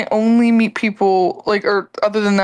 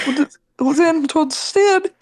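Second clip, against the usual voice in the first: laughing; 7 semitones higher, slower than usual. Real, not acted. Laughing while telling story.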